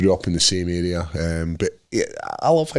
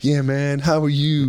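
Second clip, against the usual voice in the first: put-on American Scottish accent; 6 semitones higher, slower than usual. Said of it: "weird American English, uh, American Scottish accent".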